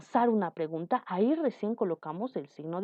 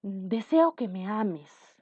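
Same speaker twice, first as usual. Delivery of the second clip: deseo; slower than usual. Shown as a demonstration. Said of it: "de deseo dirías".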